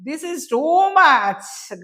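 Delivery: very slow, drawn-out cry with fear underneath; frightened shout. A narrator's reading. Man at gunpoint cries out, scared but defiant. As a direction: yell it to hide the terror. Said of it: "గట్టిగా అరిచాడు అతను".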